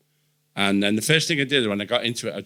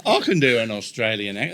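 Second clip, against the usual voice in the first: lightly put-on Australian; attempted Australian accent. Shown as a demonstration. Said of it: "that's not bad, is it?".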